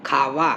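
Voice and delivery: "খাওয়া" said low, with a soft v; labiodental glide. Shown as a demonstration. Teacher modelling for practice, low soft "খাওয়া". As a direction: let teeth brush lip in "খাওয়া". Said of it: "এইভাবে উচ্চারণ করি".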